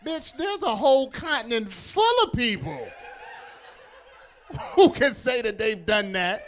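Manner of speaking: loud mock-outraged comeback; indignant retort. Comic answering the boastful contestant, indignant retort. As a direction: fire back in disbelief.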